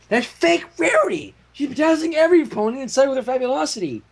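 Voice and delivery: character voice. Acted. Character voice in fiction reading.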